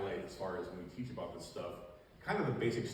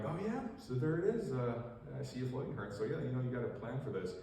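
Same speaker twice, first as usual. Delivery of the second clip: light put-on Midwest accent; 4 semitones higher than usual. Officer showing a manager the pond plant, light Midwest accent. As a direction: keep up the folksy Midwest accent. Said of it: "Midwest accent".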